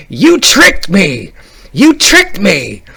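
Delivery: high, drawn-out mock scream of betrayal; yelling at top of lungs. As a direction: imitate a kid screaming an accusation, slowly. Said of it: "he just yells at the top of his lungs".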